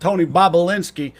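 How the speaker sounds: mock Italian accent, lightly done; a hint of an Italian mobster accent. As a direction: play Tony Treason as a half-hearted Italian wiseguy. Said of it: "I don't know why I'm doing an Italian accent".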